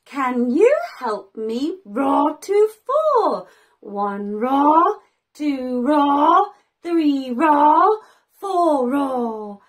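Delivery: a hint of a big dinosaur. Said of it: "said the dinosaur".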